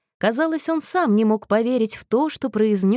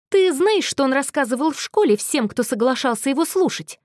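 прошипел; 6 semitones higher than usual. A narrator's reading. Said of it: "прошипел Мэтью".

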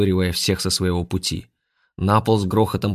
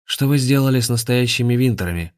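angry question; 5 semitones higher than usual. Acted. Grandmaster confronts the intruders, angry demand. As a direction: demand an answer in anger. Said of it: "гневно спросил гроссмейстер".

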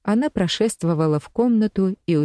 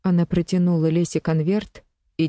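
ordinary delivery, nothing marked

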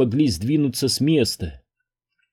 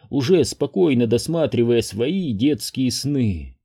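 ordinary delivery, nothing marked

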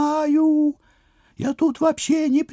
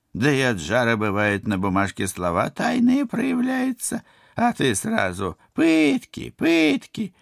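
put-on old woman voice; 5 semitones lower than usual.

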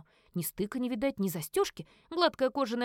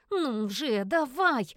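mild hiss; 3 semitones higher, 3 dB louder, much slower than usual. Acted. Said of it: "шипела я на свои неуклюжие лапы".

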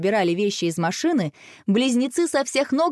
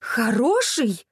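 indignant; 3 semitones higher, much slower than usual. A narrator's reading. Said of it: "возмутилась мама".

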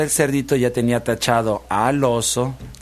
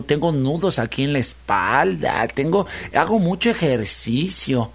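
slow, drawn-out piglet pleading; wheedling piglet. Acted. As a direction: gently talk the fox round, taking your time. (cerdito zalamero, hablando despacio)

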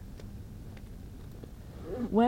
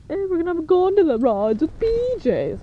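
mocking cult recruiter; 6 semitones higher, 4 dB louder, much faster than usual. Mocks the cult's pitch.

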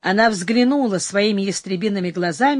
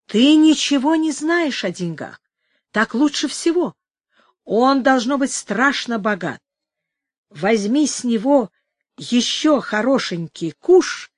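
put-on high coaxing old crone; old woman voice; 3 semitones higher than usual. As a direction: wheedle like a greedy old woman.

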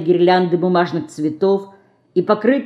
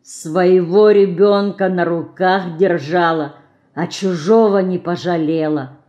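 woman repeating the reproach quietly; quiet bitter echo. Acted. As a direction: echo the child's words in sorrow. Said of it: "добавила словами мышки".

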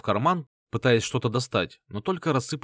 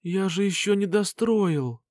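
slow, higher, feeble voice of a wounded man; weak voice; 9 semitones higher, slower than usual. A narrator's reading. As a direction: speak weakly, barely holding on. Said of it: "слабым голосом произнёс он".

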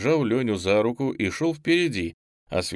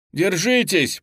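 high, loud call to hold on; shouting; 9 semitones higher, 5 dB louder, slower than usual. Acted. Boy to his teacher, high loud shout. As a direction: yell it with everything you have. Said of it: "продолжал кричать Лёня".

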